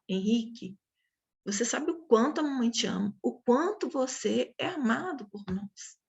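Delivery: calm, even, caring talk to a son; loving correction. Retold or imitated. Mother lovingly correcting her son Henrique, calm and steady. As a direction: tell him you love him, then set the rule calmly. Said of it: "é uma outra forma, gente, de falar".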